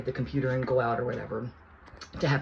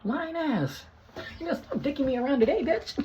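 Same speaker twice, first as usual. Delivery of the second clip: much higher, slow, hammed-up furious doctor; mock angry doctor. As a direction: ham up the doctor losing it. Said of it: "She's like".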